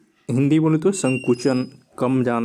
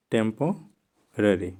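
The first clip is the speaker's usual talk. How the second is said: slow dictation; 5 semitones lower, 4 dB quieter, much slower than usual. Shown as a demonstration. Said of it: "चलो, अच्छे से मैं".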